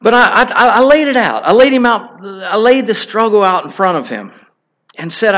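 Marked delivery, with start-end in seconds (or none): 0.0-4.1 earnest outburst. Retold or imitated. Pouring out his struggle.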